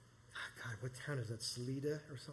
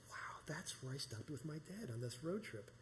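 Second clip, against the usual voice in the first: whisper; 7 dB quieter than usual. Retold or imitated. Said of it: "I said".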